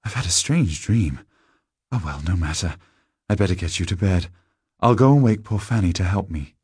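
lightly voiced, practical woman; mildly brisk lady of the house; woman dismissing a dream. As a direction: brush it off and get busy.

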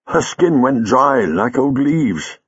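earnest, deliberate female character voice; Leela's earnest account. Acted. Leela describing the girl's death.

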